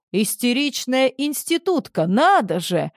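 high, mocking nervous repeat; jittery mock echo, pitch up; nervous laugh. A narrator's reading. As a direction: scoff through a nervous laugh. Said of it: "нервно засмеялся Даниил".

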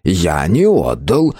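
slow, timid denial; scared denial. Acted. Frightened shopkeeper denies to Conan, slow and timid. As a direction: hold back out of fear. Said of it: "Лавочник уже дрожал от страха".

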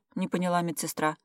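usual speaking voice

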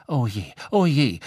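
a lightly voiced fretting chambermaid; fretting maid. Chambermaid fretting to Ismael, mild. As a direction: wring your hands over it. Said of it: "rief sie".

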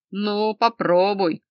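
slow, menacing, through the teeth; through gritted teeth. Acted. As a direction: spit it out through clenched teeth. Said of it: "процедил сквозь зубы король со злым прищуром".

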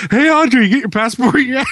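bright high mock-cheerful question; cheery quoted tweet. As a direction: read it like a chirpy fan. Quoting a listener tweet.

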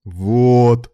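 loud sharp exclamation; triumphant loud cry; exclaimed. A narrator's reading. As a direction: throw it out loud. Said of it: "воскликнул Илья".

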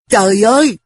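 high-pitched dismayed exclamation; exasperated cry. A narrator's reading. Narrator at An's strange logic, exasperated. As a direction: cry out in mock despair. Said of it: "Tôi đưa hai tay lên trời".

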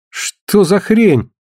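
high, thin and slow, voice going tight; thin ringing voice. A narrator's reading. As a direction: squeeze it out thin and high with fright. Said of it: "тонким, зазвеневшим в его собственных ушах голосом".

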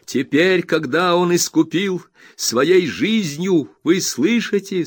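high and loud, slow furious accusation; Rosa, furious. A narrator's reading. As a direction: hammer each word into the mother. (Роза в ярости бросает обвинение матери)

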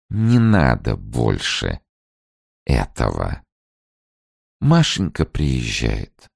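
put-on slow, heavy drunken speech; drunk man. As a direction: drag the words like a drunk. Drunk Alferov speaks slowly.

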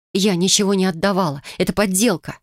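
protest, holding back a tremor; indignant. Acted. Amalia denying to her husband, mildly indignant. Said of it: "возмутилась я".

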